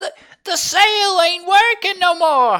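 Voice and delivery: very high, very loud, shrill, panicked gnome shriek. Voicing a gnome who wakes the crew: gnome screaming in panic. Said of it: "one of the gnomes start screaming".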